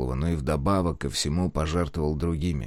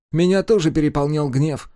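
put-on higher, earnest young man; 7 semitones higher, 5 dB louder than usual. A narrator's reading. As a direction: admit old anger, earnestly. Abel voiced, higher.

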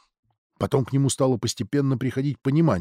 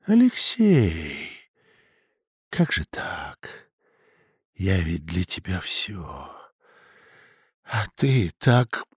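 hurt father; 8 semitones lower, much slower than usual. Acted. Father hurt by son's betrayal.

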